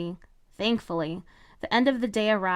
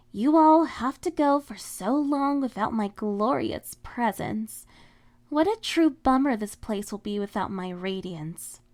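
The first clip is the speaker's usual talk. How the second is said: mock confident; 2 semitones higher than usual. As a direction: show off, hiding desperation. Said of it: "her words were indeed confident".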